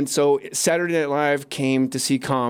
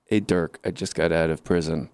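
low-pitched voice of an ex-con; ex-con autograph seeker; 8 semitones lower than usual. Acted. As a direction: pitch it down as a guy fresh from prison. Voicing ex-con asking for autograph.

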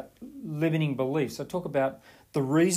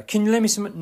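higher, louder whiny request; wheedling brother; 8 semitones higher, 4 dB louder than usual. Retold or imitated. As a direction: nag her for money. Brother asks again.

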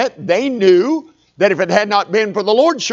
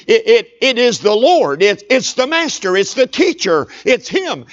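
stammering, higher, louder realisation; excited recognition; 4 semitones higher, 3 dB louder than usual. Retold or imitated. John tells the disciples it's the Lord, excited stammer. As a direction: blurt it out, thrilled it's him.

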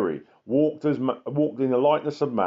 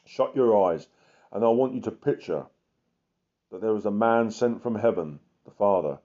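guided meditation; 2 semitones lower than usual. Acted. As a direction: lead them gently into prayer. Leads a meditation on Jesus.

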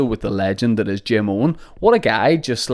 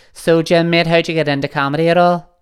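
high, louder, distorted-sounding voice; mimicking own distorted recording; 7 semitones higher, 4 dB louder than usual. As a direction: send up how you sounded on a faulty mic. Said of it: "I sounded like a tear".

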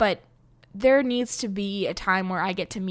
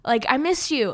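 higher, louder gushing fan greeting; imitating a singer greeting fans; 8 semitones higher, 5 dB louder, slower than usual. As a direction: gush like a star who loves her fans. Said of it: "She was like".

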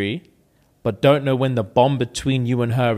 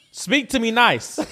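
laughing, half-shouted play scold; laughing mock scold; 7 semitones higher than usual. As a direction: playfully scold through a laugh.

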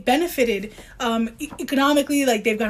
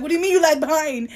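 anxious scolding; 4 semitones higher than usual. Retold or imitated. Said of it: "because I'm like".

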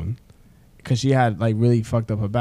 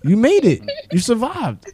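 retold reassurance; 11 semitones higher, 4 dB louder than usual. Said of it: "I said".

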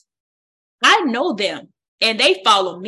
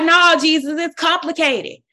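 whiny believer; 5 semitones higher than usual. Retold or imitated. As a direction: plead like a kid making excuses.

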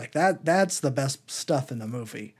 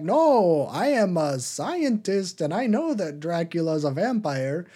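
rising to a high, loud, indignant protest; hammed-up scientist insisting he's right; mock insistent scientist; 7 semitones higher, 4 dB louder than usual. Scientist character insists, retold movie scene.

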